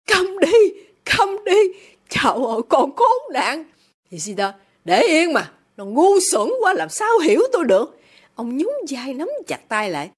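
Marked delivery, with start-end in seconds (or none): 0.1-3.6 very high-pitched outcry; distraught mother crying out to silence her child. A narrator's reading. Mother silences her daughter, crying out. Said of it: "Bà Lê Sa la lên". 4.8-8.0 high, scornful impatience; irritated father. A narrator's reading. Father tells wife daughter is stupid, irritated.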